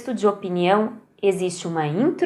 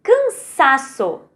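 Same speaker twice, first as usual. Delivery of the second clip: Cansaço. slowly, sá louder and held; stress on SA; 3 semitones higher, 3 dB louder, slower than usual. Shown as a demonstration. Teacher to pupils, Cansaço. slowly with sá stressed. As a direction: lean on sá in Cansaço. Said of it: "No sá".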